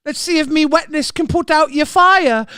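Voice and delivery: lightly put-on Kiwi accent; badly faked Kiwi woman, flirting; attempted Kiwi woman. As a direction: try a Kiwi seductress voice. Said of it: "That's my Kiwi voice".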